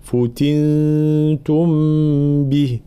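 فتنتم with a clear u on the fa and an i on the ta, slowly; clear damma and kasra. Shown as a demonstration. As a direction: stress the vowels in فتنتم slowly. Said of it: "هكذا". (فتنتم ببيان ضم الفاء وكسر التاء)

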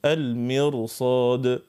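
المرصاد drawn out very slowly with a thick heavy R. Shown as a demonstration. Teacher models the heavy R in المرصاد, very slow. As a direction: stretch المرصاد, the R full and heavy. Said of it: "ديما تقعد في التفخيم".

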